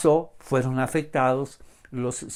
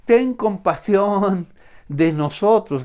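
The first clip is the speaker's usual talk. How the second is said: crying out; 4 semitones higher, 4 dB louder than usual. Acted. Blind men shouting to Jesus for compassion, crying out. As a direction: call out to someone passing, stretching the words. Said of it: "comenzaron a gritar".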